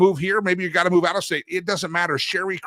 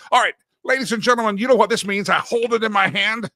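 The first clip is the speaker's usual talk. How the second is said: fast, louder showman opener; hyped intro; 4 semitones higher, 4 dB louder than usual. Real, not acted. Host hyping the meme segment for listeners. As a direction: announce it like a game show.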